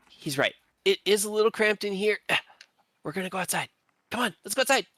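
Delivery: character voice. Acted. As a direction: pitch it up and call everyone along. GM voices a lion-riding character.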